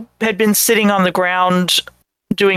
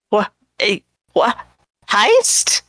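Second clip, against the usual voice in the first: startled; slower than usual. Acted. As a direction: jump at the word in alarm. NPC startled by overheard word.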